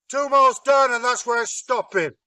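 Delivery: high, loud stubborn boast; the giant tells Loki where the hammer is, loudly and stubbornly. Acted. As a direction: dig in like a dim, proud giant. Giant refuses, voiced in story.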